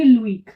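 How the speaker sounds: "लुइक" as oo, then ee; vowels sounded separately. Shown as a demonstration. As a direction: keep the two vowels apart in "लुइक". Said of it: "pronunciation separate हो जाएगा". ("लुइक" दोनों स्वर अलग-अलग)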